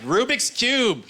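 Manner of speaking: very high, slow drawn-out shout; yelled answer. Retold or imitated. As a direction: drag out Rubik's Cube with confidence. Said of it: "She'll yell out".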